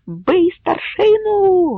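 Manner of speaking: high drawn-out slow shout; crowd yell. Acted. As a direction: bellow it like a rioting mob. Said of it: "галасували в таборі".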